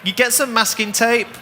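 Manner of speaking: short northern a in "masking"; northern accent. Real, not acted. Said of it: "My northern accent there".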